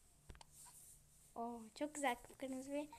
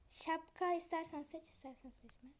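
talking while chewing gum; words round a wad of gum; 2 semitones higher than usual. Real, not acted. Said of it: "Niye sakız batıyor?".

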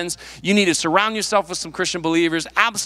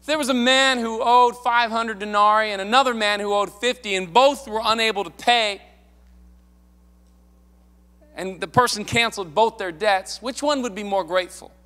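loud call out; 5 semitones higher than usual. Retold or imitated. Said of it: "So he did this really loud".

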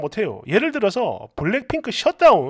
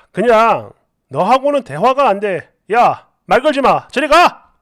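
exasperated brush-off, louder at the end; angry dismissal; 4 dB louder than usual. Acted. Husband refusing to talk to wife, angry dismissal. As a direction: cut the talk off in irritation.

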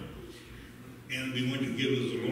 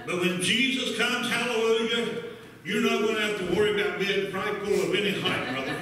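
higher-pitched, excited preacher delivery; fervent preaching; 6 semitones higher, 5 dB louder than usual. Real, not acted. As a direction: lift it up and preach to the church. Preacher working up the congregation.

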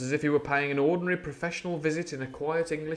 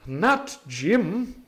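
altered voice; 6 semitones higher, 3 dB louder than usual. A narrator's reading. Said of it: "alteration in his voice".

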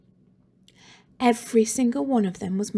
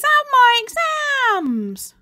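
breathless plea; 5 dB louder, much slower than usual. A narrator's reading. Trapped boy begging.

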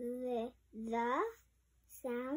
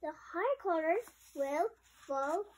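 alarmed cry; 4 semitones higher than usual. Acted. Romeo cries out in story.

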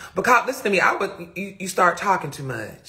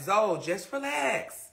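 slow, softer calming voice; imitated soothing mom; 2 semitones higher, 5 dB quieter, slower than usual. Mom telling worked-up child to relax, gently soothing. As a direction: ease them down, drawing out the words. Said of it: "She'd be like".

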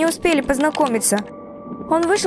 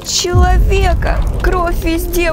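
horrified cry; 5 dB louder, slower than usual. Acted. Horrified at seeing the creature.

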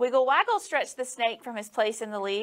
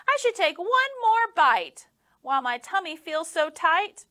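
snake voice; 6 semitones higher, 4 dB louder than usual. A narrator's reading. Snake voice in story.

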